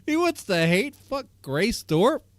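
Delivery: high, incredulous laughing outburst; laughing disbelief. Real, not acted. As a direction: laugh through shocked, high-pitched questions. Laughing disbelief at the streamer's rant.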